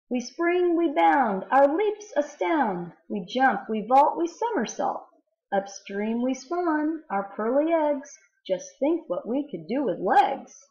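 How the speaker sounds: lifted, bouncy verse reading; poem reading. Acted. Teacher reading a salmon poem to students, bouncy read-aloud.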